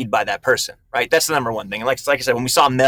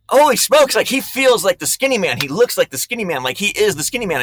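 amazed; 6 semitones higher than usual. Retold or imitated. Amazed as Walton acts the part.

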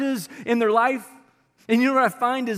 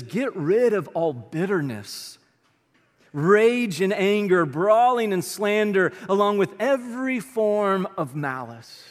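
slow, weighty reading of the verse; solemn pulpit reading; scripture reading; slower than usual. Acted. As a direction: lay each phrase down slowly and deliberately. Reads the scripture slowly.

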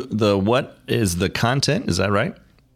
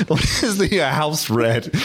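laughing attempt at a French accent; badly faked French accent; 6 semitones higher than usual. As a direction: have another go at French, hammed up. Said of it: "with a French accent".

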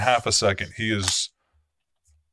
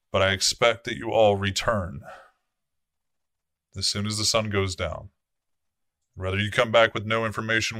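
commanding prince addressing his court; a lightly voiced stern prince; the prince speaking. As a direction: speak as the vampire prince laying out the night. GM voices the prince giving orders.

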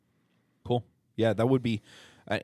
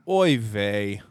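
put-on old man voice; 3 semitones higher, 12 dB louder than usual. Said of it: "you even sound old now".

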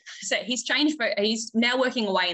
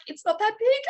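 imitating daughter; 3 dB louder than usual. Daughter backtracks.

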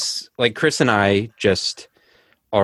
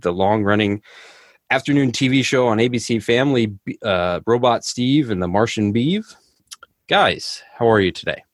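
presenter's welcome, pitched up; scripted host welcome; podcast intro read; 2 semitones higher than usual. Acted. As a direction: open the show like a host.

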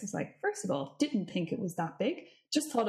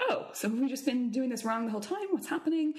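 startled; 3 semitones higher than usual. Retold or imitated. Self quoted, startled realisation.

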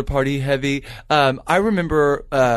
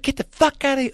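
retold yell; 11 semitones higher than usual. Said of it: "I yelled at her".

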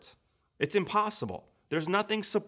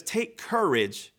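reassuring; slower than usual. Acted. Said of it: "But he says".

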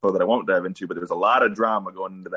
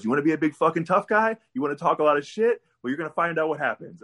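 higher-pitched retold tough-guy challenge; aggressive; 6 semitones higher than usual. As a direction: imitate an aggressive wrestler taunting a rookie. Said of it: "he's just being so aggressive".

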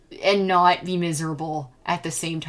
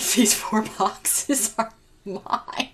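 possessive; 4 semitones higher, much slower than usual. Retold or imitated. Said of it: "and I was like".

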